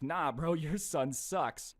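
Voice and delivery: slow, flat put-down; blunt dismissal. Retold or imitated. Interviewer bluntly dismissing the pushy dad, slow and deadpan. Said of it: "starts being like".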